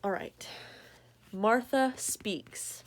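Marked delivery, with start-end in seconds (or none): 1.3-2.8 slow, drawn-out title announcement; slow storybook title; title read. Acted. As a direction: present the title grandly. Reads book title slowly.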